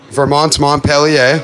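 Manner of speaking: put-on Montpelier said slowly with a light French accent; little French accent. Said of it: "I even throw that little French accent in".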